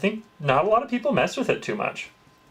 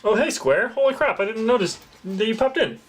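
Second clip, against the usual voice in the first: bright, much higher hello to a newcomer; excited greeting; 8 semitones higher than usual. Real, not acted. Streamer spotting viewer Square in chat, excited high greeting. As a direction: pop up high to welcome a viewer.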